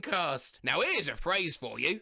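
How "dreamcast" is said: high squeaky reply. Acted. Reading a meme reply.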